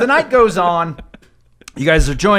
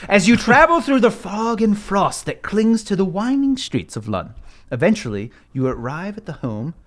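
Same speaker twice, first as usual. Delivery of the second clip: scene narration. Acted. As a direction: set the gloomy scene. Game master scene setting.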